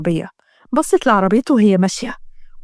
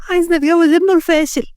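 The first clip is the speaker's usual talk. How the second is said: put-on upset girl; 5 semitones higher than usual. Upset girl protests forced marriage.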